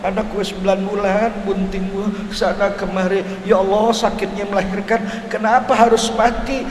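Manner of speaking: a touch of a grieving mother's wail, understated; mildly tearful mother asking why her baby died; mock weeping mother. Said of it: "Mbaknya nangis".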